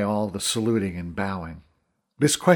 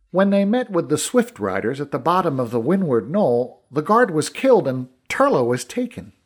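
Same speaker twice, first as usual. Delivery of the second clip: a lightly voiced soldier's report, starting higher; leprechaun officer reporting; 3 semitones higher than usual. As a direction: give a hint of a formal officer making a report.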